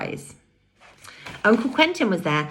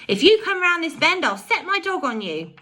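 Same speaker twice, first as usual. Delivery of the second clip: cried out; 11 semitones higher than usual. A narrator's reading. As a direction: call it out to scare the men. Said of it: "cried George".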